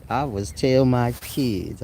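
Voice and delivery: slow mocking read. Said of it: "I know people talk like that".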